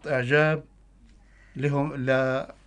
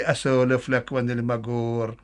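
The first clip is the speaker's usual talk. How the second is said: put-on Bedouin Arabic accent. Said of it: "قصيدة باللهجة البدوية".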